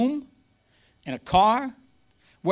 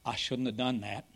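much softer, sheepish and low; a touch of guilty regret, much softer; sheepish aside; 6 semitones lower, 9 dB quieter than usual. Retold or imitated. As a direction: mutter it like you just broke the screen. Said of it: "and I went".

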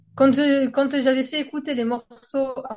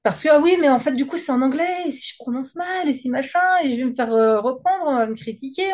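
higher-pitched self-doubting list; anxious inner monologue; 3 semitones higher than usual. Acted. Singer fretting over English pronunciation and criticism, mock worry. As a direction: voice a mock worried inner voice, item after item.

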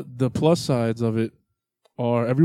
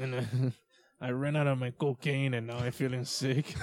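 put-on Cuban accent; 6 dB quieter than usual. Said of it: "That's my Cuban accent".

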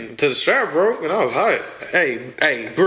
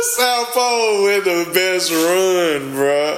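excited shout; 7 semitones higher, slower than usual. Real, not acted. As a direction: shout it out, fired up. Hyped about South Pole brand.

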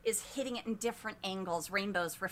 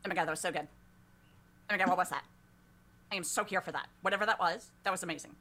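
gushing; 4 dB louder, much faster than usual. Acted. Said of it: "And she just goes".

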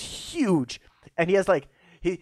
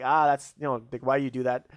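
put-on Russian accent; 4 semitones lower than usual. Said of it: "a Western accent, but it's still Russian".

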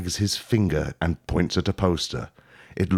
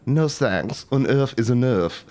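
posh queen; 3 semitones higher than usual. Acted. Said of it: "allowing you to say".

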